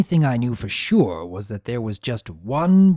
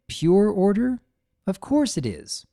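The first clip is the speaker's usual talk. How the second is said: sensibly; 9 semitones higher than usual. A narrator's reading. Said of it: "Sunny said sensibly".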